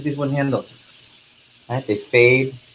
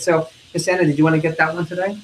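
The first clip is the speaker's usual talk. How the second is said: friendly; 5 semitones higher than usual. Shown as a demonstration. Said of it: "What am I doing?".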